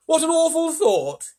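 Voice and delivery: drawn-out, shocked and high; ladybird voice. Acted. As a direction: ladybird appalled at the thought. Ladybird voice continues.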